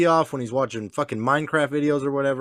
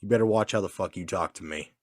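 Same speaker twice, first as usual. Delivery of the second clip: calm warning; 6 semitones lower than usual. Retold or imitated. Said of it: "I just got calm".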